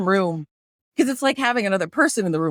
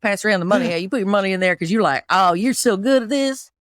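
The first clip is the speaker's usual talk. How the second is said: put-on playful Southern accent, working the crowd; faster than usual. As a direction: pass the hat in a Southern accent. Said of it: "So I'll do Southern".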